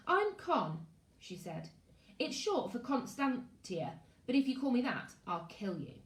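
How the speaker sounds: put-on a fierce girl warning him; blunt girl. Con introduces herself fiercely.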